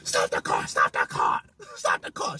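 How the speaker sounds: low whispered demand to stop; a girl ordering the driver to pull over; retold demand. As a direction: hiss it out low and urgent.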